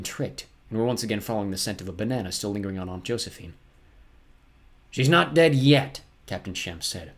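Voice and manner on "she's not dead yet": slow, louder menacing villain; terrible voice. A narrator's reading. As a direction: draw out the threat. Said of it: "in a terrible voice".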